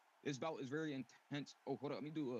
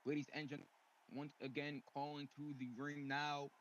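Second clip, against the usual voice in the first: boxing ring announcer. Acted. Ring announcer calling fighter out.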